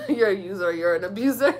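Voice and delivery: repeating it through laughter; laughing at herself. Real, not acted. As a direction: giggle at how corny it sounds. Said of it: "It sounds so corny".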